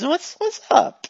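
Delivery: lightly voiced eager non-player character; a hint of a chipper, addled helper; glitchy helpful character. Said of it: "he looks at you and he goes".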